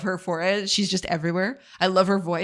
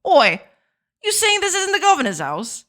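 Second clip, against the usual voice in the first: loud, high-pitched mock-British outrage; indignant British bloke; 10 semitones higher, 5 dB louder than usual. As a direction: pick a fight in comic British slang voice. Acted cockney confrontation.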